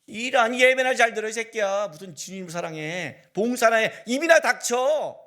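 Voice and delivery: loud, contemptuous telling-off; mock-harsh church elder scolding; rude scolding. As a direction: bark at him to shut up and serve. Pastor acts out rude scolding of believer.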